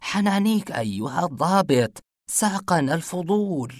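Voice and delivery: high, breathless plea after a gasp; startled plea. Acted. Saleh startled at gunpoint, pleading high and breathless. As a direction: beg the officer not to shoot. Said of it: "سمعت شهقة عالية".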